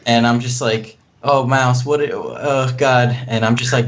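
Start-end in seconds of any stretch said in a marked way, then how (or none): 1.3-3.1 mildly flustered mother, words breaking off; lightly acted fretting, stumbling over words; worried mother. Player as worried mother dismayed at Mouse, mildly freaking out. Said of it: "freaking out like, um, like a worried mother".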